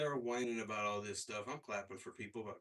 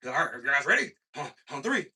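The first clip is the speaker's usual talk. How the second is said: loud and higher, calling out to the room; host hyping the crowd; 10 semitones higher, 15 dB louder than usual. Retold or imitated. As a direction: count it down like an MC working the crowd. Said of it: "So it's like".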